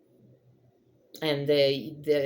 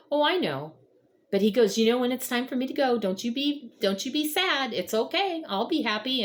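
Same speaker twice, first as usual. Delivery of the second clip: high, tight voice on the edge of tears; fighting back tears while quoting dad; choked-up retelling of a father's goodbye; voice breaking; 8 semitones higher than usual. Real, not acted. Dad's farewell words, retold tearfully.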